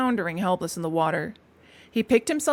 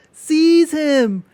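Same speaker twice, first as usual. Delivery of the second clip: much louder, high outraged cry; angry cry; 7 semitones higher, 10 dB louder than usual. A narrator's reading. Passengers crying out in horror at Toad, loud. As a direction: yell at him to be grabbed. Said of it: "they cried".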